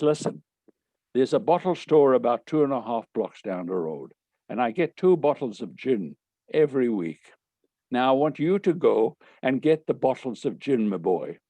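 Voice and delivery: hammy Irish schoolmaster; amateur Irish brogue, confiding an errand; bad Irish accent. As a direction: put on a rough attempt at Irish. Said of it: "Forgive my bad Irish accent".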